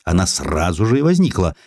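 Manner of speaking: ordinary delivery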